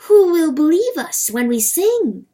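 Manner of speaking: high, loud wailing question; cock's crow. A narrator's reading. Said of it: "the cock's crow whispers".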